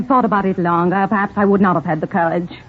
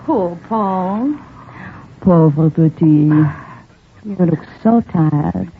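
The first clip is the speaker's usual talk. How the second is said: false tenderness; 2 semitones lower, slower than usual. Acted. Woman soothing the drugged officer, slow and tender. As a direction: lull him to sleep.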